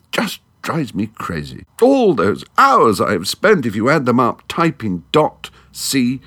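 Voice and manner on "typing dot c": normal talking voice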